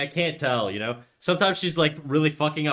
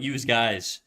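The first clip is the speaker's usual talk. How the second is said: put-on hockey coach barking use for you in a French Canadian accent; mock the French Canadian coach yelling at his players. Coach yelling at the team, mock French Canadian accent. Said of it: "he'd talk like that all the time".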